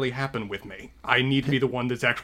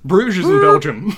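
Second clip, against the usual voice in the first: louder, slower joking jab; amused correction; 6 semitones higher, 10 dB louder, slower than usual. Real, not acted. Cohost teasing the host's wrong word, louder and slower. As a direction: tease him about the city.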